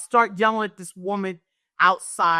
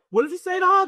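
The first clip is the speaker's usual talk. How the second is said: imitating her students; 13 semitones higher, 5 dB louder, much faster than usual. Kids voiced asking her.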